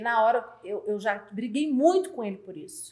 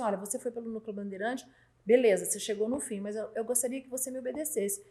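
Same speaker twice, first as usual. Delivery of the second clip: softer, measured correction; calm talking-to; 5 dB quieter than usual. Retold or imitated. Boss correcting an employee who ignored instructions, calm talking-to. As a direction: correct someone quietly, without a fight. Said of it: "conversar e falar assim".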